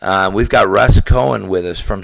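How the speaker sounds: hoarse under-the-weather voice; rough voice from a cold; sick voice. Real, not acted. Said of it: "Excuse my voice".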